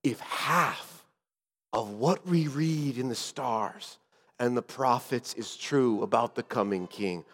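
low, soft, measured undertone; hushed reply. Acted. Azariah replying about the coming king, hushed. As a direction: answer under your breath, phrase by phrase. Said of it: "he whispered back".

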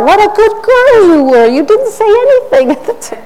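put-on high sing-song praise for a little girl; praising a child. Mother praising her daughter in high sing-song. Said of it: "I found myself saying to my own daughter".

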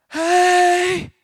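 high, loud, sustained "hey"; hammed-up squealed hello, pushed loud; overdone mock greeting. Greeting his girlfriend down the school hallway, loud high mock hello. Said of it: "more like".

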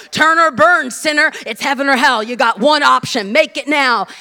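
lightly mimicked loud street preacher; pushy hellfire evangelist. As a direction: imitate a forceful turn-or-burn preacher.

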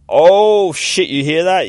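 loud, high drawn-out "oh"; startled outcry. Acted. Girl hearing something start up, startled. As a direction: react loudly to a sudden noise.

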